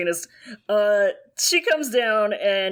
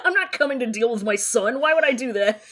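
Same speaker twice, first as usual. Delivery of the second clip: laughing; faster than usual. Acted. Voicing the aunt, laughing.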